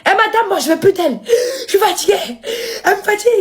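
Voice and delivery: high whiny mock of father. Mimicking her father complaining to the social worker, whiny and high. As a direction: whine it like a worn-out parent. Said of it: "Il fait ça".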